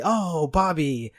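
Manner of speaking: slow weary Texan dad; Hank Hill. Pretend. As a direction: drag it out, disappointed. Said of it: "He would say".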